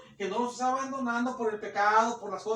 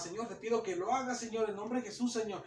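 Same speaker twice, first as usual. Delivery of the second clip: casual quiet prayer; 7 dB quieter than usual. Retold or imitated. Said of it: "y otro hermano llega nomás".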